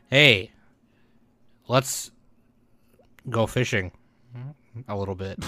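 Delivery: halting, jokey American accent; lightly faked American voice; mock American accent. Shown as a demonstration. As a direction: put on an American accent word by word. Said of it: "I can do an American accent".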